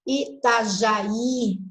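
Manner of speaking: very slow, each syllable of "Itajaí" pulled apart; sílaba por sílaba. Shown as a demonstration. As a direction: spell out "Itajaí" syllable by syllable, very slowly. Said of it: "tá vendo?". ("Itajaí" bem devagar, sílaba por sílaba)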